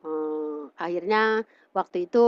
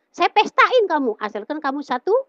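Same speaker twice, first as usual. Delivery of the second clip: high-pitched imitated insistence; insistent retold bargain; 6 semitones higher, 3 dB louder than usual. Mother bargains over daughter's religion, insistent retold offer. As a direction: press the offer, leading up to a condition.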